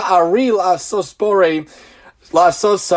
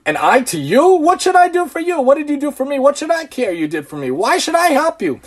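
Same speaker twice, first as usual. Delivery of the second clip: selfish voice; 6 semitones higher than usual. Retold or imitated. Voicing a selfish person.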